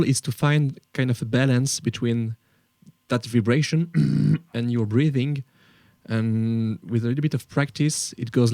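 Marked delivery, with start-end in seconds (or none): 3.9-4.5 throat clearing. Shown as a demonstration. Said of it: "it has a sound like this".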